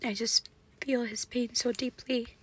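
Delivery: whispering softly, near tears; hushed whisper. Real, not acted. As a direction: whisper out of real grief. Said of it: "just a moment of silence".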